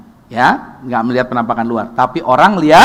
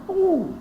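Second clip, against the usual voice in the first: engine rev whoosh; 7 dB quieter than usual. Retold or imitated. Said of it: "Ngomongnya cepat". (suara mesin meraung tinggi)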